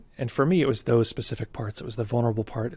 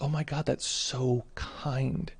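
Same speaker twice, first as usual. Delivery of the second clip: touched and amazed; slower than usual. Retold or imitated. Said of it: "it's like".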